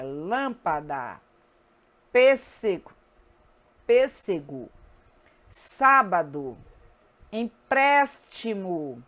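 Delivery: "lâmpada, pêssego, sábado, empréstimo, estômago, álibi" slowly, each hit on the accented syllable; slow word list, punching LÂM, PÊS, SÁ, PRÉS, TÔ, Á in "lâmpada, pêssego, sábado, empréstimo, estômago, álibi"; antepenultimate syllable stressed. Shown as a demonstration. Teacher showing proparoxytones, stressing the accented syllable in "lâmpada, pêssego, sábado, empréstimo, estômago, álibi". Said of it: "sílaba tônica é a antepenúltima".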